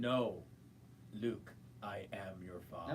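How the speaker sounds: low, whispery villain voice; Darth Vader. Acted. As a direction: drop low into a hushed, ominous whisper. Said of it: "Then what does Vader say?".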